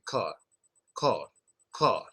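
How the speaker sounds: car said with little jaw drop, close to call; car said the wrong way, jaw barely dropped. Shown as a demonstration. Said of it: "which isn't good".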